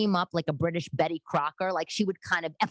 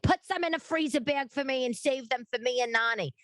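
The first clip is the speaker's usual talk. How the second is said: mother; 8 semitones higher than usual. Retold or imitated. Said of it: "My mother's like".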